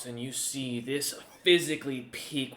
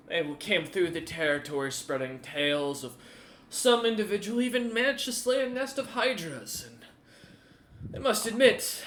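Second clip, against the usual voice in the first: menacing warlord. Acted. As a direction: threaten with cheerful relish. Warlord continues threatening.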